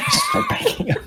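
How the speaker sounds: very high, tiny squeaked voice; absurdly high-pitched parody; squeaky mock relay. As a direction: squeak it out as a joke. Mock relay in telephone game.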